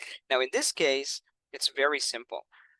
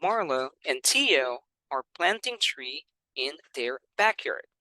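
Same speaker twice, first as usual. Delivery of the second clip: "Marla and Tio are planting tree in their backyard" read slowly; slow model reading. Shown as a demonstration. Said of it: "and then also the speed".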